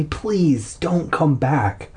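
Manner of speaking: slow, mildly acted plea; pleading. Boy silently begging his dog to stay away, pleading. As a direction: draw the plea out slowly. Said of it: "I pleaded silently".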